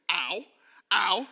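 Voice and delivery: comic "ow"; mock ow of pain. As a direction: pretend yelp at a poke. Acts branch poking forehead.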